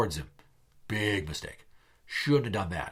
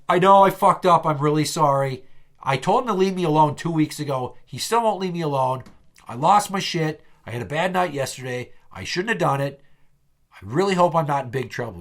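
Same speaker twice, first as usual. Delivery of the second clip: louder, higher pleading explanation at first, then easing; urgent apology; 3 semitones higher, 5 dB louder than usual. Retold or imitated. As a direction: blurt out the confession and justify it. Acted pleading apology to team lead.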